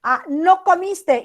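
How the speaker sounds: "No comiste" high and loud, a hint of anger; mock angry. Shown as a demonstration. Teacher reads the message sent with the devil emoji, mildly angry. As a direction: snap "No comiste" like an upset parent. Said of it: "y ponemos el diablito".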